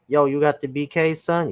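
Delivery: mock Brooklyn "Yo" with a lift; playing a New Yorker asking about sneakers; New York accent. Friend imitating a New Yorker, light New York accent. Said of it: "This has New York written all over".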